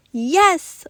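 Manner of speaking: high, loud, bouncing; jumping with joy; excited yes. A narrator's reading. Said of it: "Lucas answered, jumping".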